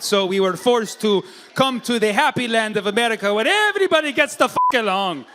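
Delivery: lightly acted immigrant reciting hardships; lightly voiced immigrant. Voices the immigrant's grim answer.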